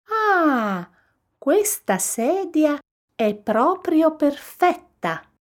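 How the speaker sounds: high, delighted Goldilocks sighing; contented sigh. A narrator's reading. Goldilocks settling into the little chair, sighing contentedly. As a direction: let out a long high "ah" of satisfaction. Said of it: "sospirò".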